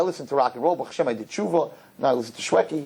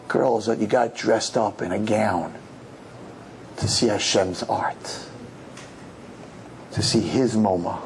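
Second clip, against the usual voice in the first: lower, slow sincere appeal; 5 semitones lower, slower than usual. Real, not acted. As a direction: draw them in gently. Earnest quiet challenge.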